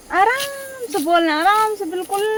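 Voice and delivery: a hint of mom's gentle tone; mock soft sweet voice. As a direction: imitate mom speaking softly. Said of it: "सुरीली आवाज़ करके".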